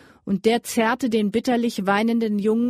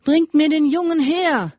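higher, louder barked command of the mounted leader; commanding order; 7 semitones higher, 5 dB louder than usual. A narrator's reading. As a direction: order the boy brought like a ruthless captain. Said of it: "befahl der Berittene".

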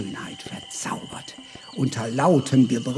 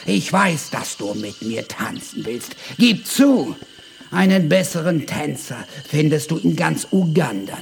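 boastful dancer; 4 semitones higher, 5 dB louder than usual. Acted. Giovanni boasting while dancing.

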